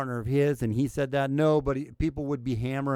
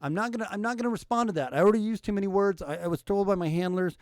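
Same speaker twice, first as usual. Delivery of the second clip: higher, quick mock Biden voice; 4 semitones higher than usual. Podcaster mocking Biden's dodge, in a higher, faster voice. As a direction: parody the politician brushing it off, fast and high.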